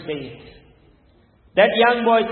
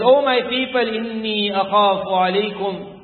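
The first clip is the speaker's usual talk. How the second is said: raised-pitch appeal flowing into Arabic recitation; imitating a boy's Qur'anic warning; imitated boy's recitation; much faster than usual. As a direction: call out to your people, then recite. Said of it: "The boy carries on".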